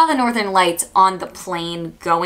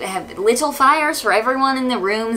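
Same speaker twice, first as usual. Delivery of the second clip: higher, lightly Icelandic tour guide; chirpy guide with a hint of Icelandic accent; 6 semitones higher than usual. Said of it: "excuse my Icelandic accent".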